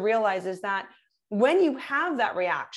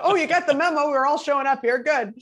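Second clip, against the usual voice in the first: playful mock greeting; 5 semitones higher, 5 dB louder than usual. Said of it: "acting out a greeting".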